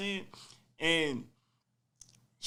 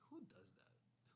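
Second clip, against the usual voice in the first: incredulous; 7 semitones lower, 32 dB quieter, much slower than usual. Retold or imitated. Girlfriend stripped the bed covers.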